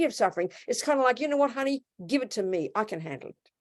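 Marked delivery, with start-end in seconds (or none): 1.2-3.5 mock parental reassurance. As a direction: start lifted, then settle gently as a comforting parent. Voicing parent reassuring a child.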